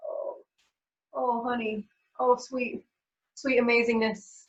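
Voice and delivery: soft, tender coo to herself; tender self-soothing. Retold or imitated. Soothing herself during a hard moment, soft and tender. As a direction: comfort yourself like a loved child.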